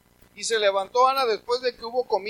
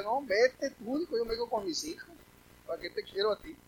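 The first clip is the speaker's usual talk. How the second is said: softer, lightly voiced wife brushing him off; mock wife; 7 dB quieter than usual. Preacher voicing a wife who dismisses her husband, light mocking. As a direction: toss him off lightly, half-joking. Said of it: "Y que te diga".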